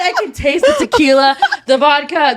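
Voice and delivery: laughing. Real, not acted. Laughing through the retelling.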